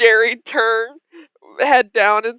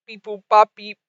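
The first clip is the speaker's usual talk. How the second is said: robot voice. Acted. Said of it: "it looks at you and says".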